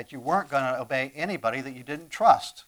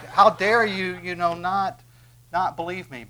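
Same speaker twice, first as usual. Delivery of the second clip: raised, louder mock outrage; mock indignation; 5 semitones higher, 7 dB louder than usual. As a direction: play at being offended, voice pitched up. Acts out imagined indignant reply.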